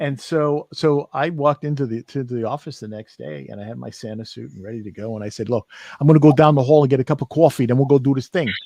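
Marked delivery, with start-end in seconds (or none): 5.5-8.5 put-on Brooklyn accent, louder and faster. Retelling what was said at the office in a Santa suit, Brooklyn accent. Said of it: "I had regained my Brooklyn accent".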